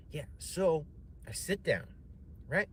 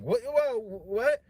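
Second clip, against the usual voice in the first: very high, loud alarmed whoa; startled shriek; 8 dB louder, much slower than usual. Retold or imitated. Host startled by the comic's outburst, very high shriek. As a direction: squeal in sudden alarm. Host's startled reaction mimicked.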